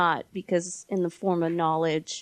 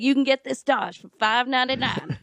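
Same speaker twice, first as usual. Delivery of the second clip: mock TV car ad pitch; TV car salesman; 4 semitones higher than usual. Mourner mocking funeral man as a car salesman. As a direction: sell it like a used-car spot. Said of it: "selling me a car on T V".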